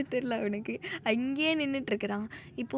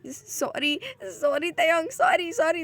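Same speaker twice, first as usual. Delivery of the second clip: rising apology; 4 semitones higher, 3 dB louder, much slower than usual. Acted. Apology builds in distress.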